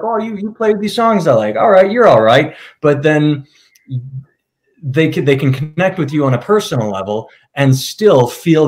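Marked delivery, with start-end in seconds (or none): 0.0-2.6 high, grudging mock praise; mocking a rural fan who likes the band's songs, higher and grudging; mock small-town fan. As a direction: play the grudging local fan, pitched up.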